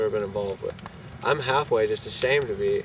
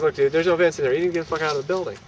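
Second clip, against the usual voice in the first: angry; 4 semitones higher, 3 dB louder, faster than usual. Retold or imitated. Telling intruder to leave.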